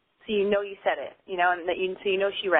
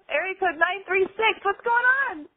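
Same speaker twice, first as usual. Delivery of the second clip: host intro pitched up high; radio host voice; 9 semitones higher than usual. Shown as a demonstration. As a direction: announce the caller like a DJ. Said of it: "Let me try that again".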